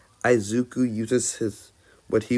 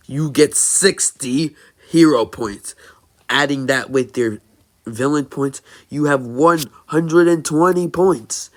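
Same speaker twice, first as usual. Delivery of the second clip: higher, louder proud hero announcement; booming All Might; 4 semitones higher, 6 dB louder than usual. Acted. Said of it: "All Might says".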